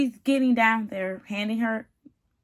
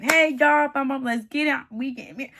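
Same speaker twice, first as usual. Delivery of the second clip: so excited; 3 semitones higher than usual. Retold or imitated. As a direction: imitate an eager groom rallying everyone. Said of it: "he is so excited".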